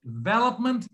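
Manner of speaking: "development" begun on a high, strong VE; starting from primary stress. Shown as a demonstration. Teacher demonstrates the first step, strong VE in "development". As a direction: leave off DE and hit VE in "development". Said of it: "So it will be like this".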